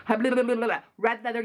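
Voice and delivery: very slow, every syllable drawn out; tongue twister warm-up, taken slowly. Shown as a demonstration. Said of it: "tongue-twister warm-up before timer".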